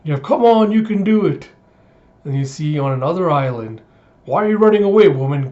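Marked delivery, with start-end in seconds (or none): 0.2-1.5 high-pitched shouted encouragement; cheering. Retold or imitated. Pirates urging on the man overboard, cheering. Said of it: "pirates starting to cheer". 4.2-5.5 high, loud taunt, dropping on the last word; jeering shout. Retold or imitated. Slaver chasing a fleeing woman, jeering.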